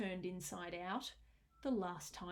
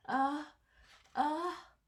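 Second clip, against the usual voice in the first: louder and higher into a big sneeze-up, then the boo bursts out; building to a sneeze; 6 semitones higher, 9 dB louder, slower than usual. A narrator's reading. Elephant builds toward a sneeze, rising to a burst. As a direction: wind up the ah, ah and let the boo explode.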